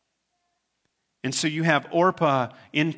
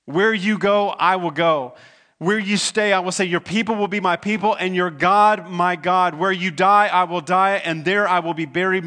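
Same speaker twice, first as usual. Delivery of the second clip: building louder and higher; impassioned vow; 3 semitones higher, 4 dB louder than usual. Retold or imitated. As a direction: pour your whole heart into the promise. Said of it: "And she says".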